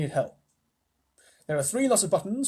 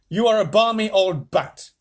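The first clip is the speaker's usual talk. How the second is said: teasing scold; 5 semitones higher, 7 dB louder than usual. Acted. Wonka scolding.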